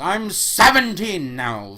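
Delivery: whiny, drawn-out complaint; complaining. Acted. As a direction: whine it slowly. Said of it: "she complained".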